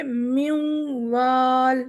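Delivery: noon flowing into the waw of وال; teacher shows the idgham into waw; merged waw. Shown as a demonstration. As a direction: glide the sound straight into the waw. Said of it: "یہاں پر ہم کیسے ملائیں گے".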